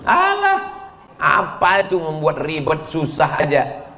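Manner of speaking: scoffing complainer, high drawn-out opening cry; dismissive objection. Retold or imitated. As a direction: wave it off like a mocked sceptic. (meremehkan, menirukan orang yang mengeluh)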